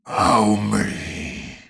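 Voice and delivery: slow, loud and stern; slow NPC question. Acted.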